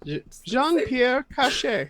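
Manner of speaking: slow, careful attempt at French; imitated French accent. Pupil repeating Jean-Pierre's name, careful French accent. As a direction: copy the French name slowly and haltingly. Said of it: "say my full name with my accent".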